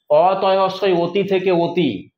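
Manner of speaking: অতি spelled out slowly, then said as ওতি; spelling versus speech. Shown as a demonstration. Teacher slowly contrasts the spelling and the sound of অতি. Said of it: "বানানটা বলি অতয়স্বই অতি".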